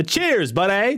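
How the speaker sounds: high, playful imitation of a friend; imitated high-pitched catchphrase, lilting up at the end; Gangers' catchphrase. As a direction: mimic a streamer's cheery voice line. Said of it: "That's literally Ganger's voice".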